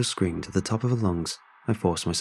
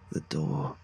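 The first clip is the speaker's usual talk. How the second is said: faint breathless whisper; 4 semitones lower, 7 dB quieter than usual. A narrator's reading. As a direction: whisper it with last strength. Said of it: "she whispered".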